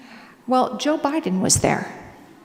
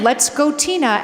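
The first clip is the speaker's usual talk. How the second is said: mock yell; 4 semitones higher, 5 dB louder than usual. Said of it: "He was literally yelling".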